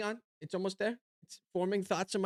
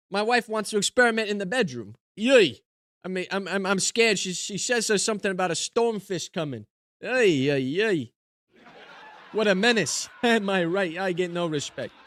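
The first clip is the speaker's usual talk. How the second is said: lightly voiced put-upon comedian; old-school joke delivery with catchphrase; put-on stand-up comic; 4 dB louder than usual. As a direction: play a hammy one-liner comic. Delivers one-liners as joke comedian persona.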